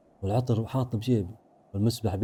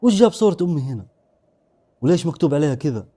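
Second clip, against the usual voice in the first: higher, louder startled questions; shocked questioning; 4 semitones higher, 5 dB louder than usual. Acted. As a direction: question it in alarm. Finds mother's photo with talismans. (تساؤل بصدمة)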